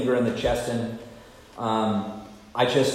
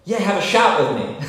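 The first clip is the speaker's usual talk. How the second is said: offer a drink; 8 semitones higher, 5 dB louder than usual. Retold or imitated. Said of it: "And he said".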